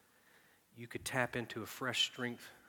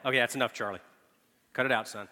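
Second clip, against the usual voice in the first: louder, sterner scolding; frustrated scolding; 8 dB louder, faster than usual. Retold or imitated. Frustrated father scolding crying baby, firm. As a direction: snap at the baby to stop.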